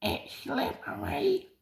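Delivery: soft unvoiced sly whisper. A narrator's reading. Trucks plotting against Mavis in a whisper. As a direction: breathe it conspiratorially. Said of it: "they whispered".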